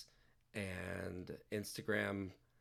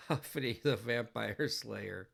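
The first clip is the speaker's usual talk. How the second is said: loud, slow, mock movie-trailer title; grand title announcement; 2 semitones higher, 6 dB louder than usual. Streamer announces a joke movie title to chat, loud.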